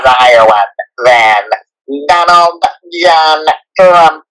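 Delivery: Trump impression. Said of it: "Trump is a nasally one".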